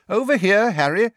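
high, loud call across the hall. A narrator's reading. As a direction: call him over above the crowd. Mr Weasley calls Harry over.

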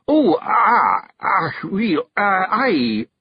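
high, hesitating ahs; stammering dismay. Acted. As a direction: flounder for words. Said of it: "his face falling".

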